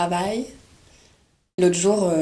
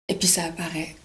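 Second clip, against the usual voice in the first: whispered, softer reveal; breathy hush of anticipation; hushed suspense; 5 dB quieter than usual. Acted. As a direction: whisper it as the awaited thing appears. Suspense as the email appears.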